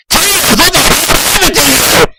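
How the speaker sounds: high, loud shocked outburst; shocked yell. Acted. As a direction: yell it in disbelief. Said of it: "I yelled".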